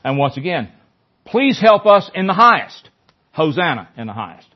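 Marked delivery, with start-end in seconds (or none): 1.2-2.9 crowd's cry. Acted.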